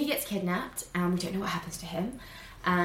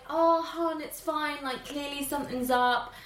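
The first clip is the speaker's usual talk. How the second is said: higher, gentle Ray voice; Ray comforting; 5 semitones higher than usual. Retold or imitated. Ray comforting upset Tiana, higher gentle voice. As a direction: soothe her like Ray. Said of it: "he's like".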